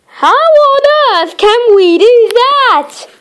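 high, worried little voice; worried friend. Acted. Friend asking Brainy how, in a high worried voice. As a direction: ask it as a fretful little friend.

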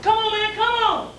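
high-pitched urging; comic rider urging, voice up high; mock pleading. Acted rider pleading in the chute.

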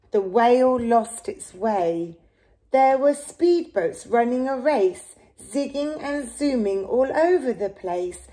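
steady storybook read-aloud; reading to children. Acted. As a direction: read the rhyme gently to a child. Reads picture book to child.

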